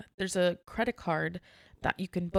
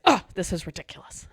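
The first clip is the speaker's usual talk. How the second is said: mock exasperated outburst, louder on the "Oh"; exasperated guest; 6 dB louder than usual. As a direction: imitate a fed-up customer's huff.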